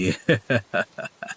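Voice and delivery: soft villain's chuckle; smug schemer's laugh, trailing away; gloating laugh. Acted. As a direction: chuckle at total control. Schemer gloats over owning everything.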